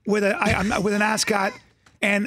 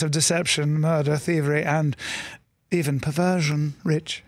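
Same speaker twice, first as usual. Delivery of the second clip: English aristocrat; 4 semitones lower than usual. Retold or imitated. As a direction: purr out sins like a polite English lord. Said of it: "English aristocrats".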